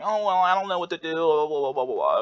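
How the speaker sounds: high, wavering, indecisive voice; hammed-up know-nothing whine; clueless rambler. Shown as a demonstration. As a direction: start high and dither down through the blahs. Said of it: "better than someone talking like".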